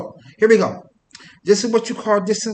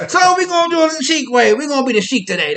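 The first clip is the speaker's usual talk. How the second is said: laughing; 8 semitones higher, 4 dB louder than usual. Real, not acted. Turban keeps falling, laughs.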